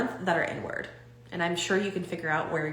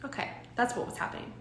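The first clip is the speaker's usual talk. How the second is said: easy acceptance; 4 semitones higher, 8 dB quieter than usual. Shown as a demonstration. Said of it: "instead of just being like".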